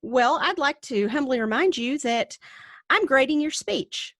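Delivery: measured, pointedly polite, lifting at the end; mock polite reminder. Teaching assistant answering a mocking student, with pointed politeness. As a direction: put the student in their place politely. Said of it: "you know, I'm like".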